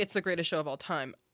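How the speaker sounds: ordinary delivery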